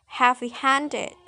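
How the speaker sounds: "heavy-handed" with main weight on HAND; stress on second word. Shown as a demonstration. Student showing adjectival compound, "heavy-handed" stressed on HAND. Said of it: "primary stress is on the second word".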